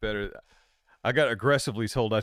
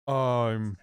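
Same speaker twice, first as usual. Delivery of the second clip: drawn-out, hesitant attempt at Welsh; shaky grasp of a Welsh accent; 3 dB louder, much slower than usual. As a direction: try a Welsh accent, word by word. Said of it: "When I do a Welsh accent".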